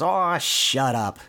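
drawn-out, grumbling dismissal; slow mock annoyance; mild retold yell. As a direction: brush it off, lightly irritated. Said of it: "Donald kinda yelling at the spring".

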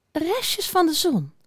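slow, high, pensive musing; peinzend. A narrator's reading. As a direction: mull it over slowly. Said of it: "zei hij peinzend". (langzaam, hoog en peinzend)

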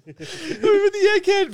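high, loud laughing repeat; squealing laugh. Real, not acted. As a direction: crack up while repeating it. Laughing joke, repeated higher.

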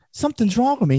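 very high comic complaint; Gilbert Gottfried impression. Storyteller mimics comedian's patient complaining to doctor, high impression. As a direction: whine it up high like a joke patient. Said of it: "He says".

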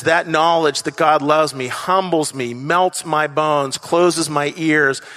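a hint of reading Maya Angelou aloud; reading a poem's lines. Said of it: "where she says".

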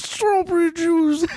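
lispy voice shouted high. Retold or imitated. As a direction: yell it high with a lisp. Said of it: "that same kind of lispy".

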